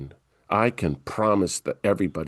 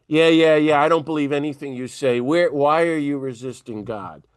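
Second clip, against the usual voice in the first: dismissive coach; 3 semitones higher, 4 dB louder than usual. Retold or imitated. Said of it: "but I'm much harder".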